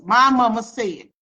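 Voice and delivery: imitating mother's firm "My mama said"; emphatic. Daughter showing the way mother said it to them, emphatic. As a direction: lean on "My" in "My mama said" and let it fall. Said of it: "That's the way she would say it".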